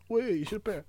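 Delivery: put-on a light English-accented approval. Churchill approving the troops, light English accent. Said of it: "Tu fais très bien l'accent anglais".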